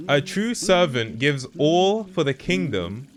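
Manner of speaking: rereading it high and slow in disbelief; incredulous reread. Real, not acted. Gamer rereads the shrine text in disbelief, incredulous. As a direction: stretch it out, baffled and outraged.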